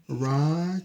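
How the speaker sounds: mock sneeze. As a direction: act out the bear's big sneeze for kids. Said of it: "The bear says".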